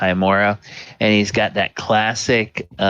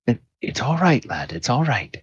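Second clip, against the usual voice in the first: reassuring priest; 4 semitones higher than usual. Acted. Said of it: "He says".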